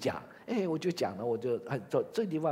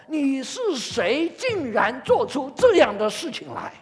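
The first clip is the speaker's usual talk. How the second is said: challenging question; 5 semitones higher, 7 dB louder than usual. Acted. Crowd challenging John.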